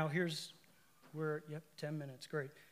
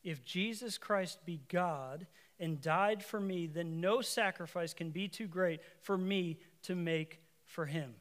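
slow, deliberate repeat; slow emphatic reread. Shown as a demonstration. Preacher repeating Studd's words to the congregation, slow. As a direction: let each word land slowly.

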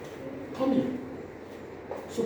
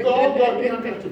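mock prayer; 4 semitones higher, 3 dB louder, faster than usual. Shown as a demonstration.

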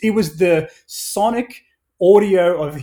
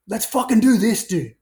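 higher-pitched, mock fired-up pitch; imitated excitement; 6 semitones higher than usual. Marketing staff bursting into the boss's office, mock excited. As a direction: act out an eager staffer rallying the boss.

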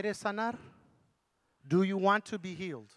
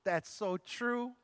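impressed reply; 3 dB quieter, much slower than usual. Retold or imitated. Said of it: "Le dije".

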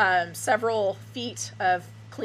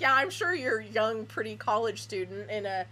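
sarcastic. Retold or imitated. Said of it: "it's like".

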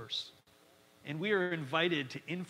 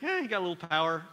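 backhanded compliment; 4 dB louder, faster than usual. Retold or imitated. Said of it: "Sounds like a backhanded camp-, compliment".

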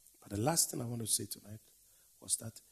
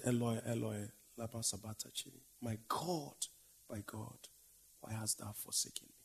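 soft, pained lament; hushed cry of anguish; 5 dB quieter than usual. Acted. Preacher voicing Jesus forsaken on the cross, soft and anguished. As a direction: let the cry fall away to almost nothing.

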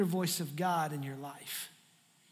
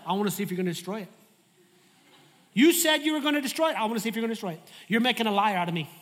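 whiny complaining Jonah; 4 semitones higher, 7 dB louder, much faster than usual. Retold or imitated. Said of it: "he's like".

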